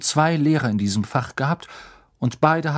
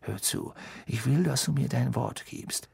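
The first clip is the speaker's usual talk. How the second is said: hushed, softer urgent words; quieter and hastier; 7 dB quieter than usual. A narrator's reading. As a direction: drop the voice, press on quickly. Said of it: "sprach leiser und hastiger weiter".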